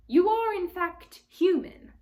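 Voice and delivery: a wide-eyed, curious faun asking; surprised faun. Acted. Faun voice, high.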